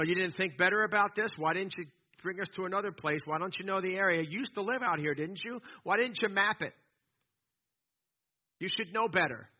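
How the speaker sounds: mildly exasperated string of questions; complaining. Acted. Thirsty people second-guess Moses's route, complaining. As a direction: pester the leader with one reproach after another. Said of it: "That's called complaining".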